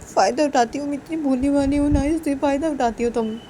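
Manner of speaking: acted wounded reproach; hurt complaint. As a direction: accuse your partner of using you. Complaining of being taken advantage of.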